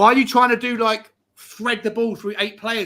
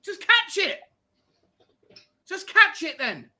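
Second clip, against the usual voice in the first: exasperated; 11 semitones higher, slower than usual. Real, not acted. Scolding the keeper.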